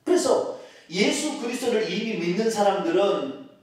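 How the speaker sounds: ordinary talk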